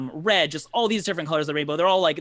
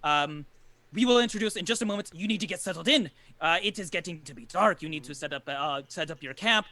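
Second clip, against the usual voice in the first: lightly voiced hospitable camp man, a little higher; Jarek, eager host; 3 semitones higher than usual. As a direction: fuss over the newcomers and hurry them along. Game master voices Jarek.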